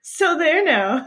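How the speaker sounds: put-on slow, prim old-fashioned taunt; old-timey taunt. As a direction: say it like a 1900s scold. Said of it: "the early nineteen hundreds way of saying".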